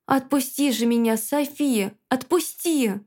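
insistent plea, pressing on the name; demanding. Acted. Ghost urging the girl to let go, demanding. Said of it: "требовательно добавила она".

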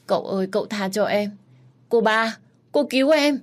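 high, loud wailing plea; desperate cry. Acted. Maid wails to master and mistress while being hauled off. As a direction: cry out as you are dragged away. Maid cries as dragged away.

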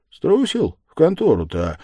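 loud, high-pitched jeer; mocking taunt. A narrator's reading. Raskolnikov taunts the yard-keeper about the police station, mocking. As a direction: goad him with mockery. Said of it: "с насмешкой проговорил ему Раскольников".

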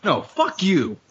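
normal talking voice

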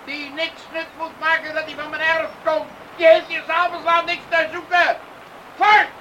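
angry farmer ordering him off the yard; angry father. Acted. Father angrily drives Arjen from his yard at night. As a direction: chase him away with anger.

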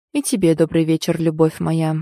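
low, mocking greeting; cold mockery. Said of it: "холодная насмешка". (холодная насмешка)

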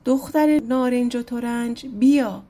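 a moderate call to someone at a distance; calling out loud. Acted. Prince calls for the Orange and Citron Girl, calling out. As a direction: call her name across the crowd. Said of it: "داد زد".

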